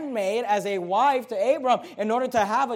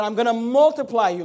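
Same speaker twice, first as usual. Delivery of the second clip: "multiply" leaned on a little louder; emphatic; 4 dB louder than usual. Shown as a demonstration. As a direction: press the promise "I'm gonna multiply you". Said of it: "Notice the emphasis".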